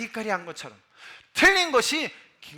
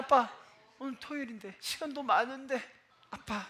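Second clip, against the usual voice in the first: soft, hushed coaxing of dad; very quiet childlike plea; imitated child's whisper; 3 semitones higher, 9 dB quieter than usual. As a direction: whisper hopefully like a little son. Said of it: "속삭이는 그 소리를 듣고".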